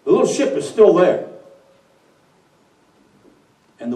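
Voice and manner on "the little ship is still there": higher, louder incredulous repeat; can't believe what he hears; devil in disbelief. Acted. The devil questions the wind in disbelief, incredulous.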